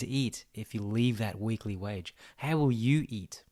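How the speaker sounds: hushed ominous whisper. Acted. Taunting the worried viewer in a slow whisper. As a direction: breathe it like a dark secret.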